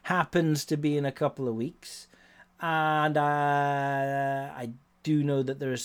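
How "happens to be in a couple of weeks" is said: slow, higher, musing inner voice; retold intrigue. A poker fan spotting the main event, musing slowly. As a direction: draw it out like a tempting thought just struck. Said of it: "I was like".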